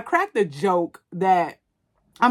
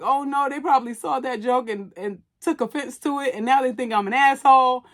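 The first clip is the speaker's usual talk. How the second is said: mock worried, a little higher; overthinking; 4 semitones higher than usual. Vlogger imagining her joke caused offense, mildly worried. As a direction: play your own overthinker fretting. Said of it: "the overthinker in me is like".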